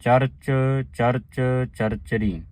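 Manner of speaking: ਚਰਚ ਚਰਚਰੀ said slowly as one joined word; joined recitation. Shown as a demonstration. Teacher showing the sangat how to join ਚਰਚਰੀ. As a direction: run ਚਰਚ ਚਰਚ ਚਰਚਰੀ together without a break. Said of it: "ਸਾਰੇ ਹੀ ਇਕੱਠੇ ਪਾਠ ਨੇ".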